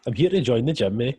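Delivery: half-hearted Aberdeen accent. Shown as a demonstration. Putting on Aberdeen for a mate's request, poorly faked accent. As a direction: have a rough go at an Aberdeen accent. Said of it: "give me the best Aberdeen".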